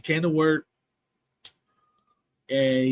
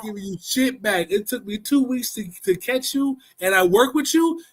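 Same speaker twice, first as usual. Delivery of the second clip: higher, mock furious telling off; angry refusal; 7 semitones higher than usual. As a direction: snap at him to get out. Angrily refusing to return money.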